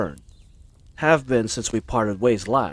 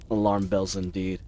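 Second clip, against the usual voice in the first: sighing resignation; 4 semitones lower, 3 dB quieter than usual. Acted.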